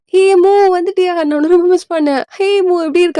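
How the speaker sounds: high-pitched, gushing hello; delighted greeting. Acted. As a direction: greet a much-missed friend. Acted excited reunion greeting.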